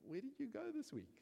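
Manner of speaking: high, loud, teasing accusation; mocking churchgoer. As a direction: needle the preacher with mock suspicion. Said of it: "it's just like".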